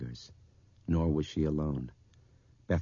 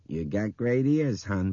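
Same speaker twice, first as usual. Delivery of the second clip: slower, higher, louder drawl; young woman; 5 semitones higher, 6 dB louder than usual. A narrator's reading. Bethany remarking on the girl's hearing, drawn out.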